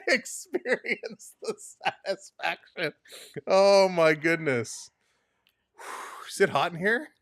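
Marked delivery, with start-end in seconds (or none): 0.1-2.9 mock ad slogan.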